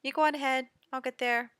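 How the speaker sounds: playful cat impression taking its time. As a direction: voice the cat, unhurried and content. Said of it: "It's like".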